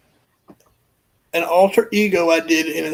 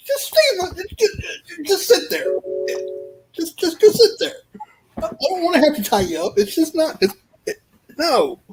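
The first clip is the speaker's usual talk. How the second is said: tag; 11 semitones higher than usual. Acted. Acts out pleading with captives.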